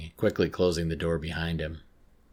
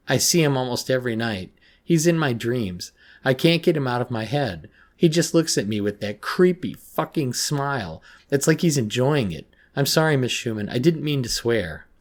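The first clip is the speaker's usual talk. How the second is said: higher, louder, distraught outpouring; sobbing confession; 6 semitones higher, 6 dB louder than usual. A narrator's reading. Girl confessing her dreams to the counsellor, tearful distress. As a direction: pour it out upset, as if through sobs. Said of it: "I was sobbing heavily".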